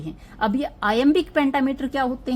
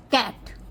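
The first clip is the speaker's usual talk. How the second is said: "कैट" with the stress on its "एट" part; much slower than usual. Shown as a demonstration. Teacher showing students syllable stress, "कैट" stressed on "एट". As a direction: lean on the "एट" sound in "कैट". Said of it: "यहाँ पे मैंने stress कहाँ पे डाला".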